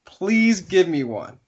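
high, slow, insistent mock plea; drawn-out imitation of a needy villager; pleading villager.

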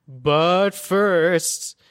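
"But first" stretched slowly, each word held; slow, deliberate "But first" to stall; host stretching "But first" so the co-host can stall; drawn-out "but first". Real, not acted. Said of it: "he said "but first" so slowly".

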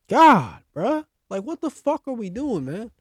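high-pitched burst of frustration; real fed-up fan outburst; pressed, exasperated. Real, not acted. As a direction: open loud, then plead in disbelief. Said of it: "I try not to get so pressed".

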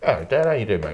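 talking while chewing loudly; messy loud eating. Real, not acted. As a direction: mouth full of chips. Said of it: "talking with your mouth full".

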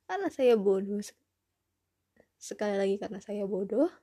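loud self-mocking admission; loud declaration. Real, not acted. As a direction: announce it loudly, deadpan. (berseru mengejek diri sendiri)

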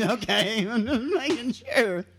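Okay, I'm just making sure said through laughter; laughing. Real, not acted. Cohost laughing about the WT joke, talking through laughs. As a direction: giggle the words out.

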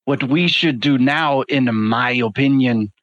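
lightly voiced formal, deliberate character; measured, formal adviser. Adviser urging the group to eavesdrop, measured and formal. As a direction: counsel the party in careful, formal phrases.

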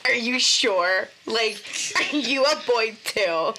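slow doubtful questioning; skeptical mock question. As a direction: ask it slowly, doubting. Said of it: "when you say".

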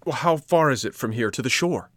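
breathless, hurried question. Acted. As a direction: ask it out of breath. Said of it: "asked Pinocchio breathlessly".

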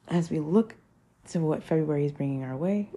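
holding back hiccups; talking through hiccups. Real, not acted. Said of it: "I have the hiccups".

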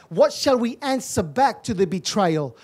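rising preacher's cry over music, building line by line; preaching at full force. Real, not acted. Preacher stirs the congregation, preaching hard over the music. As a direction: hammer each question home to the church. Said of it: "I feel like I'm shouting this morning".

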